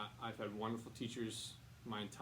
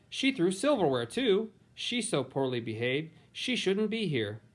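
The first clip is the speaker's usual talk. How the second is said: higher, indignant gossiping voice; complaining relative; 7 semitones higher, 12 dB louder than usual. Acted. Relative complaining that Helen behaves like a monster, indignant higher voice. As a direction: tattle on the child with disgust.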